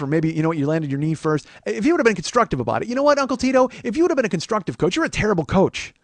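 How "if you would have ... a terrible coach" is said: hammed-up indignation, building louder; playfully furious complaint, rising in volume; mock tirade. Student berating his terrible sensei, mock outrage.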